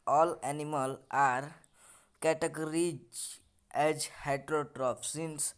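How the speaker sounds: slow, word-by-word English reading; textbook read-aloud. Acted. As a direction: read the lesson out slowly, in separated chunks. Reads lesson text aloud slowly. (धीरे-धीरे पाठ पढ़ते हुए)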